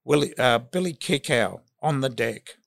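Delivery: a bit raspy from a head cold; hoarse with a cold. Real, not acted. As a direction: speak through a cold, slightly hoarse. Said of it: "Excuse my voice, I've got a bit of a cold".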